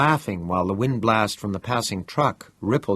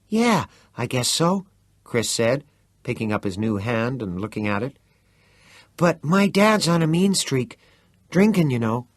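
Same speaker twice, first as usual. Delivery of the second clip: Chris voice; 3 semitones higher than usual. Acted.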